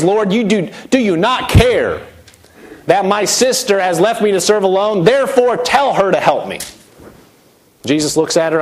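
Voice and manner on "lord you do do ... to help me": accusing Martha. Acted. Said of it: "accuses Jesus, says".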